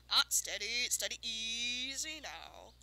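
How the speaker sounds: gentle a spooked mare, stretching the words; coaxing horse handler. Acted. Farmer trying to calm the unicorn, slow and loud.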